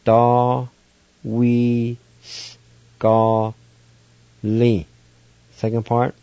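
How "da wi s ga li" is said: Da, wi, s, ga, li as separate beats; Cherokee syllables spelled out. Shown as a demonstration. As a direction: say Da, wi, s, ga, li one syllable at a time. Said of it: "First part is pronounced like this".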